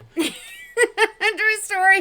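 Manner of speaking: laughing hard in a high, loud fit.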